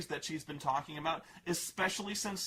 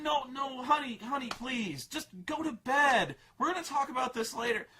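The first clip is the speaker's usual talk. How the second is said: pat her on the head with words; patronizing dad; 7 semitones higher than usual. Retold or imitated. Dad sending daughter to bed, mock patronizing. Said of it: "dad cutting daughter off".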